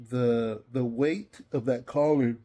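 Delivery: said through a yawn; tired, yawning through the words. Real, not acted. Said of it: "Man, I guess I'm tired".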